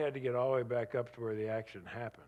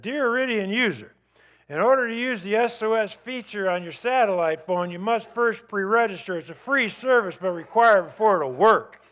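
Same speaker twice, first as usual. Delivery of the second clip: automated message voice; 8 semitones higher, 10 dB louder than usual. Pretend. Reading out the automated text message.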